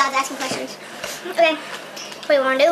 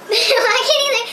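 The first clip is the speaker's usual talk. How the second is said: laughing; 6 semitones higher, slower than usual. Real, not acted. Laughing after failed burp.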